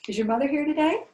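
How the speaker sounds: sweetly probing, like a nosy neighbour; a lightly voiced prim matron; prim older lady. A narrator's reading. Mrs Ogletree questions Callie.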